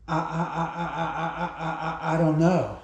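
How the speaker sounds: stammering, lost for words; lightly acted shock, stuck on the first word; stunned stammer. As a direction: friend stammering after his phone flew away. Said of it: "he was like this going".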